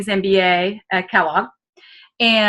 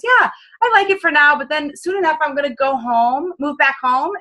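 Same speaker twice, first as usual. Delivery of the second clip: higher, breezy, offhand retelling of the guy; casual guy; 6 semitones higher than usual. Retold or imitated. Guy telling his buddy he'll move home, breezy and high. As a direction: toss it off like a young guy with plans. Guy explains future plans.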